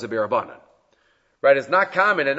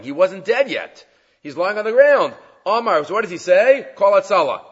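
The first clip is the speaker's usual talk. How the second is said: dramatic retelling; 5 semitones higher, 5 dB louder than usual. Real, not acted.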